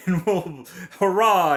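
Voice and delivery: mock movie line delivery. Parodying the hero's return with his love, mock-triumphant. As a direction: throw out a hammed-up triumphant cheer. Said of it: "it's delivered in the".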